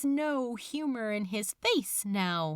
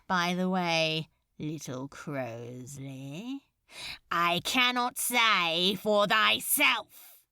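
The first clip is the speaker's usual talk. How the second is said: menacing demon lord; 4 semitones lower than usual. Acted. Demon lord taunting a cowering demon, low and silky. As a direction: purr it like a bored demon lord. Beelzebub voiced in story.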